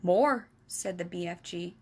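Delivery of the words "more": loud giant's word; lightly voiced giant correcting; BFG voice. The BFG correcting Sophie, lightly voiced.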